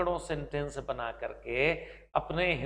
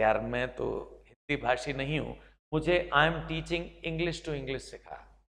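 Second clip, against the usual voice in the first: giving-up learner; 3 semitones lower, 5 dB quieter than usual. Pretend. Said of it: "मैं हाथ खड़े कर दूं कि".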